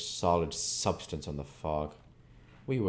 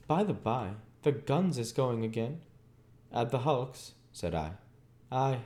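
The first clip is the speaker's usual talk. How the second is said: a slouching rough workman, voiced well above the narrator; surly labourer Orlick, higher voice; 8 semitones higher than usual. A narrator's reading. Orlick telling Pip about the guns, surly labourer voice. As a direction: play the sullen journeyman on the dark road.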